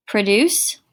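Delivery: pro-DUCE, stress on the second syllable; verb produce. Shown as a demonstration. Teacher showing students the verb, stress on the second syllable. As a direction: say "Produce" as pruh-DOOCE, weight on the end. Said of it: "pronounced two different ways".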